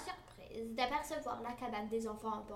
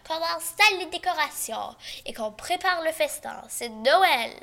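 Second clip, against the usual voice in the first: louder, eager festive cheer; joyful; 4 semitones higher, 8 dB louder than usual. A narrator's reading. Boustru tells the servants it's Christmas, cheerfully louder. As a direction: spread the Christmas news happily. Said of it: "dit joyeusement Boustru".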